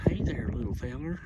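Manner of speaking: whispered greeting to a small animal; soft whispered hello; gentle whisper. Retold or imitated. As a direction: hush it so he won't run. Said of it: "And I was like".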